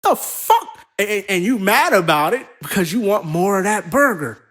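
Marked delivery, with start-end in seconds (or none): 0.0-0.7 mock outrage. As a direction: squeal it like your burger was stolen. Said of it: "And you're like".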